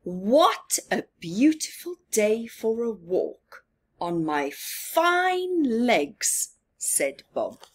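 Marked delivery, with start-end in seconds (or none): 0.0-6.6 proud, slow stroll of a boast; confident. Acted. Bob admiring his own legs on a walk, confident. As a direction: show off your fine legs, savoring it. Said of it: "Bob sounds quite confident".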